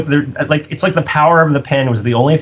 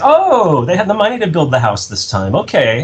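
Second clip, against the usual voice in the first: mildly mock-impressed, high "oh" then settling; sarcastic realization; 5 semitones higher than usual. Writer reacting to the new sequels, mildly sarcastic. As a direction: feign being impressed while nursing a grudge.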